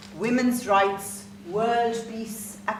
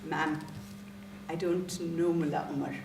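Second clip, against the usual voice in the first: understated, low polite correction; polite denial; 4 semitones lower, 4 dB quieter than usual. Acted. Teacher answering overexcited stranger, understated politeness. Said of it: "so I politely noted".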